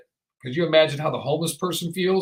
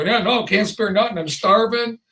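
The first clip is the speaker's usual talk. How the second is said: mock stingy excuse. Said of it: "You go".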